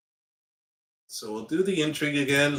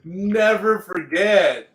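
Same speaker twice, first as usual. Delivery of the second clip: hammed-up fury; 6 semitones higher, 5 dB louder, slower than usual. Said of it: "Whoa, the rage, the fury".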